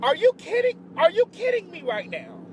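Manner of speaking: loud, high "are you kidding me"; stunned outrage at the rude guest; outraged disbelief. Retold or imitated. Telling viewers about the trade guest, loud outraged disbelief.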